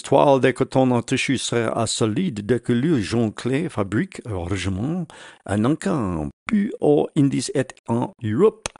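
English speaker's rough French; broken French. Real, not acted. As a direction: read French with a heavy English accent. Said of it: "Sorry for the bad French".

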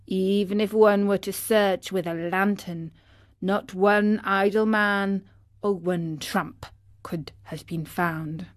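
usual speaking voice

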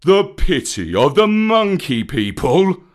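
outraged bear's scornful echo; snorting scorn. A narrator's reading. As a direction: throw the words back with contempt. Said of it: "Baloo snorted".

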